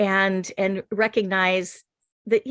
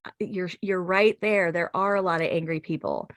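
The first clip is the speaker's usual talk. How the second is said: de-escalating agreement. Retold or imitated. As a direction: gently grant the point, calming them. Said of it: "me trying to de-escalate".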